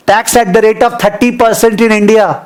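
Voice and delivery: very slow, word by word for note-taking; teacher dictating at a crawl; slow dictation. Shown as a demonstration. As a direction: spell it out slowly so they can write. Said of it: "मेरे को tax बताना".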